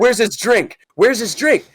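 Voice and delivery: high, demanding manager voice; imitated angry manager. Manager demanding the customer's drink, mock anger. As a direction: repeat it like a boss demanding answers. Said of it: "And she goes".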